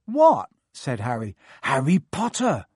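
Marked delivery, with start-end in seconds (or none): 0.0-0.5 startled. A narrator's reading. Harry startled. 1.6-2.6 chorused. A narrator's reading. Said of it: "chorused the twins".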